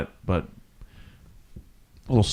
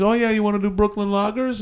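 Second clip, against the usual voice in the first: lightly mimicked Swedish woman, pitched up; made-up Swedish accent; 9 semitones higher than usual. Swedish tourist offers lagers, improvised Swedish accent. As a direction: put on a higher, rough stab at a Swedish accent. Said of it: "I don't know the accent for Sweden".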